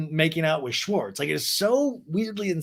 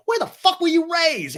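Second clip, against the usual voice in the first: mock outraged yell; 6 dB louder than usual. Lala snaps at Raquel.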